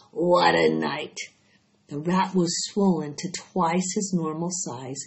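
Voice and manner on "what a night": hoarse. A narrator's reading. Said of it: "he repeated hoarsely".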